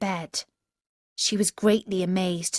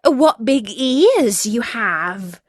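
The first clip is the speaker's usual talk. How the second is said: put-on louder, slow, wondering child voice; amazed girl; 3 semitones higher, 6 dB louder, slower than usual. Girl staring at the wolf in bed, amazed. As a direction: marvel at it like a wide-eyed child.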